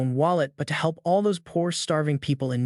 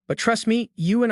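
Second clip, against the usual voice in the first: higher, mocking sneer; 7 semitones higher than usual. A narrator's reading. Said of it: "Ampon sneers".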